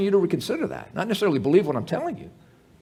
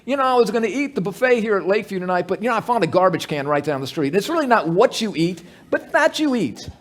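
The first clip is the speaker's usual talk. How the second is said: hammed-up breezy explanation, louder and quick; mock casual earnestness; 4 dB louder, faster than usual. Preacher imitating someone who found a garbage-can meal, mock earnest. Absurd acted quote about garbage food.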